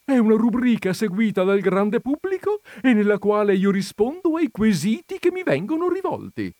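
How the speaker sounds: high, loud, insistent declaration; talking over him. A narrator's reading. Countess explaining her column over the visitor, insistent. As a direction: push on over the interrupter. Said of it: "gli diè sulla voce la contessa".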